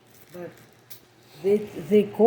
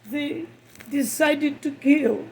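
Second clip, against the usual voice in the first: crying, worn out; 3 semitones higher, 5 dB louder than usual. Real, not acted. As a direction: voice raised and strained with grief. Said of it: "I can't stop crying".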